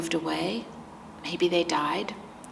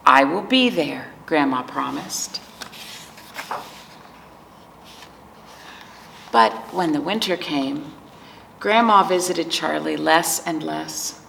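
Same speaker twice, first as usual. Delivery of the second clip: picture book narration; 2 semitones lower than usual. A narrator's reading. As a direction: read it to preschoolers, lingering on key words. Reads picture book to children.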